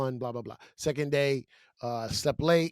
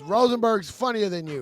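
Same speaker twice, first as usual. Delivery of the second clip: mock heckle pitched up; imitated heckler yell; 4 semitones higher, 4 dB louder than usual. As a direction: repeat the jeer as a heckler would. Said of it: "The guy yells out".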